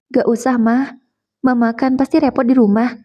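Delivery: a touch of suppressed crying; holding back tears. Acted. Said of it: "jawabku sambil menahan tangis". (menahan tangis, sedikit lebih tinggi)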